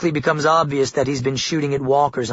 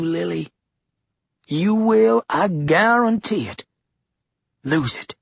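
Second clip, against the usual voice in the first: menacing governor; 4 semitones higher than usual. A narrator's reading. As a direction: drive every word home with menace. Governor's threatening speech.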